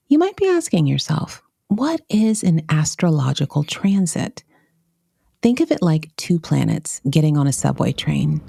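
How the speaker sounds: measured, scripted narrator delivery; polished podcast host introduction; podcast intro read. Acted. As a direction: read a show intro with deliberate pauses between phrases.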